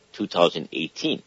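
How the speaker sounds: ordinary talk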